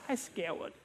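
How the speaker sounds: soft imitated toddler voice, mispronouncing scared; scared little three-year-old. Three-year-old daughter to dad, soft imitated toddler voice. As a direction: softly mimic a small child who can't say the r. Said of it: "they can't quite say it right".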